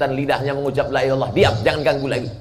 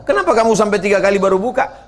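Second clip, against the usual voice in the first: curious question; 9 semitones higher, 4 dB louder, faster than usual. Acted. Questioning the companion.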